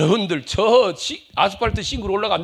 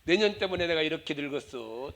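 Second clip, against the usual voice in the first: grumbling mother. Acted. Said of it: "자식 원망합니다".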